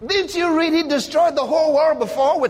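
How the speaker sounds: laughing. Real, not acted. Laughing rebuttal.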